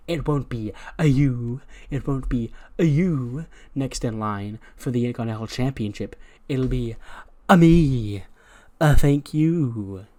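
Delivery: lightly voiced smug braggart; a hint of a cocky promo, hammed-up; arrogant wrestler. Gable brags to Morrison and Ali, mildly smug voice.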